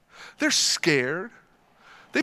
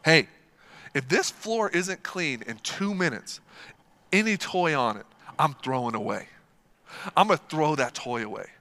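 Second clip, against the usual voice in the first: lower, firm father's warning; stern dad; 5 semitones lower than usual. Retold or imitated. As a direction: lay down the law to the kids. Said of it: "I put my foot down".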